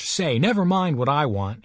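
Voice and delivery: put-on a touch of a boy's indignant snap; mildly voiced angry comeback; angry retort. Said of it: "he retorted angrily".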